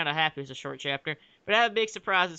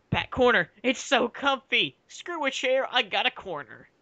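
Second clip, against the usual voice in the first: mock delight; 5 semitones higher than usual. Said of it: "They just like".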